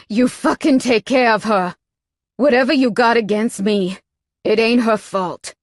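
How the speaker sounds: loud, forceful order; angry command. Acted. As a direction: lay down the law. He orders Spike furiously.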